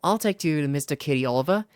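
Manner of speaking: high, bright little fairy cheering. Acted. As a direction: squeak it out like an excited tiny fairy. Fairy P leads Oliver.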